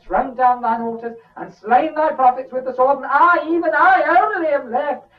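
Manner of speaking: high, loud plaintive recital; complaining Elijah. Acted. Elijah repeating his complaint to God, high and plaintive. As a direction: pour out the grievance again.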